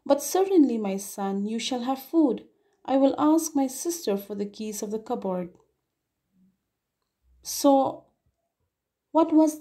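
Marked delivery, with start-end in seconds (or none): 0.1-5.6 eager. Acted. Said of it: "eagerly, okay, he said".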